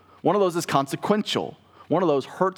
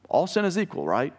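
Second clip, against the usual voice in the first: "All sin is equal, right?" lifted higher, mock-quoting; mock cliché; 4 semitones higher than usual. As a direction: parrot the saying you've heard, a bit teasing. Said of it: "you may have heard that before".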